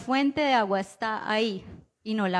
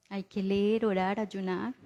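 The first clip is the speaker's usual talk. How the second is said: sincere affirmation; 2 semitones lower, 3 dB quieter than usual. Real, not acted. Preacher answering the doubter, calm and sincere. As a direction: affirm it gently, meaning every word. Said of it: "es cierto".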